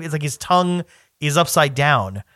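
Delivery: ordinary talk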